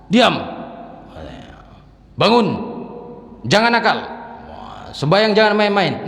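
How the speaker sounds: put-on high, loud yelled scolding at a child; shouted parental telling-off. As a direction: bark orders at a naughty kid.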